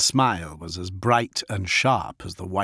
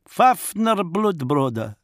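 higher, slow, proud wolf chieftain; Fafnir the wolf lord; 9 semitones higher, 4 dB louder, slower than usual. Acted. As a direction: speak as the feral wolf lord, measured. Fafnir names himself.

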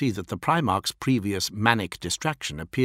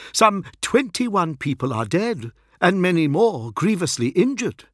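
higher, urgent official report; lightly voiced grave envoy; 8 semitones higher than usual. Envoy reports deaths to the primarch, grave. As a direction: report the casualties formally, lightly acted.

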